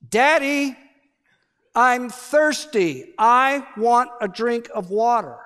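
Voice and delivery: put-on high, slow child's plea, drawn out; whiny little girl. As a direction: whine it like a thirsty toddler. Daughter calls from bedroom.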